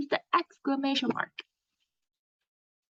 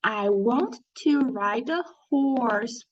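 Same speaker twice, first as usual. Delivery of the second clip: read aloud slowly. Shown as a demonstration. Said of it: "let's read together".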